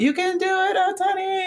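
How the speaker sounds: mock scream, very high-pitched. Retelling an anime scene as he walks in: imitating a scream. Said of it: "she just screams out".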